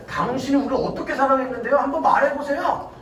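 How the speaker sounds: quick, acted defiant retort; cheeky demand for an explanation; talking back. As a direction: challenge with mock indignation. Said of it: "하나님한테 막 말대꾸하면서".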